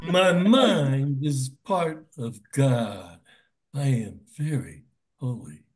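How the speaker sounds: slow, drawn-out solemn words. Shown as a demonstration. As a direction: take each word slowly. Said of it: "say it very slowly".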